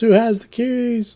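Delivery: shrill, very high-pitched shout. During a game, the speaker voices a blinded character, shouting. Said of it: "she shouts".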